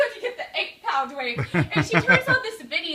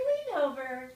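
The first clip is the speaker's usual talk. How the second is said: slow, drawn-out instructor cue; imitated class instructor; 8 dB quieter, slower than usual. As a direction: stretch out the exercise command like a class leader. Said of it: "now I'll do my reenactment".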